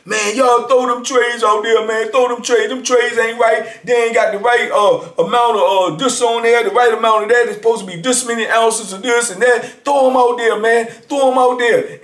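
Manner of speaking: rally the block, hammed up; retold hollering. Inmate hollering at the block to throw out trays, mock yell. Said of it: "He start hollering".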